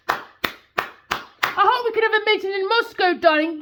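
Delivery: mocking, syrupy; mock politician. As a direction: simper like a smug leader. Mocks politicians' meeting talk.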